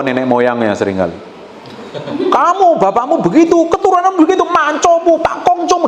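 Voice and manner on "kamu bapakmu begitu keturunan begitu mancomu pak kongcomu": mock quarrel. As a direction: nag like an angry spouse dragging up ancestors. Pasangan bertengkar membawa leluhur. (meniru pasangan yang marah, tinggi dan keras)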